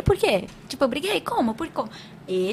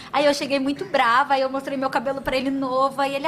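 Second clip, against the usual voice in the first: normal talking voice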